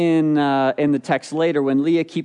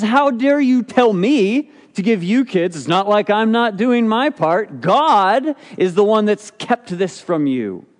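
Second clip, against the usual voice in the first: higher, louder indignant retort; mad husband; 5 semitones higher, 4 dB louder than usual. Acted. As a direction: snap back like an offended husband. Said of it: "but he's mad".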